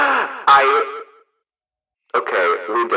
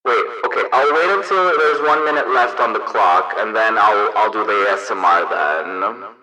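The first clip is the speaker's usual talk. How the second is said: megaphone voice changer. Real, not acted. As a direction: talk through a megaphone effect. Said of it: "it should sound like a megaphone".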